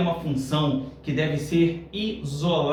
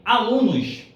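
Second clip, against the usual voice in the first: ALUNOS pitched up as a call; exclamatory call; 4 semitones higher, 4 dB louder, slower than usual. Shown as a demonstration. Teacher quoting the order to students who copy, exclamatory. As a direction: punch ALUNOS like an exclamation mark. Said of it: "pela entonação que foi utilizada".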